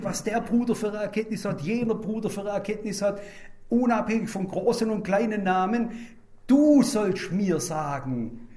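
ordinary talk

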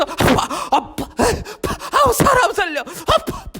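high, whimpering cries for help; Peter crying for help. Acted. Peter sinking in the sea, high crying for help. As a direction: wail as he sinks.

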